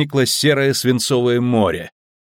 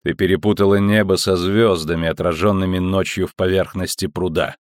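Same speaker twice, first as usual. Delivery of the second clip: mocking metallic voice; 2 semitones lower than usual. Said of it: "насмешливый металлический голос".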